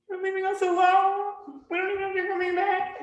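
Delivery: high plaintive child voice, hammed-up; mock the abandoned kids pleading; whiny kids. Kids complaining as parents leave for a walk, high mock whine. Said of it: "these poor orphans cry".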